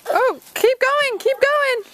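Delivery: high, drawn-out cheer from the sidelines; hoarse marathon cheering. Real, not acted. Parent cheering child in goal.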